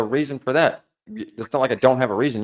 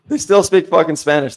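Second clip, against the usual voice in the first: exasperated outburst; 5 semitones higher, 6 dB louder than usual. Real, not acted.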